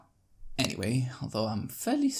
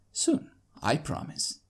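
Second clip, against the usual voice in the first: sweetest tone. Acted. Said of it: "in the sweetest tone I can think of".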